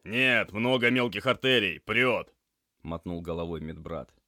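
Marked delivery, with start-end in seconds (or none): 0.0-2.3 loud, higher, pressured answer; urgent report. Acted. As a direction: call out bad news in an emergency. Alarmed report of heavy bleeding.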